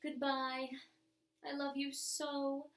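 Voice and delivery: slow, fond, drawn-out goodbye; a dress's tender farewell, slowed and trailing; lingering farewell. Pretend. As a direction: let each goodbye linger as if fading away. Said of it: "still saying to you as it vanished".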